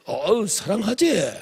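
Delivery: slow, drawn-out mock husband reply; husband's easy answer. Husband answering his wife, slow and drawn out. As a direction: stretch it out lazily, half-amused.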